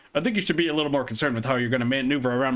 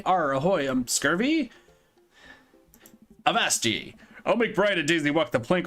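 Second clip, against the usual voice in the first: light pirate growl. Acted. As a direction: ham up the pirate. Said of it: "talk like a pirate with me".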